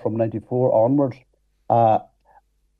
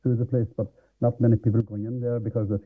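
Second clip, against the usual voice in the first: muffled mic; 3 dB quieter than usual. Real, not acted. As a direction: voice muffled by hand over mic. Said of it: "You're covering your mic with your hand".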